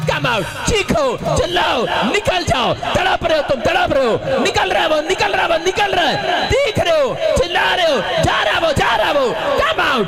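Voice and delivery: high, relentless deliverance shouting; exorcist's shouted command. Real, not acted. Preacher ordering foul spirits to leave the womb, shouted commands. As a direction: drive the spirit out, punching each short phrase.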